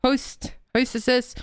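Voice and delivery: words blurred by a tongue stud; lisping round a pierced tongue; tongue piercing. Real, not acted. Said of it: "You sound like you have a tongue piercing in your mouth".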